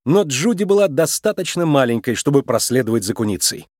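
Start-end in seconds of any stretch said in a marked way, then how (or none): none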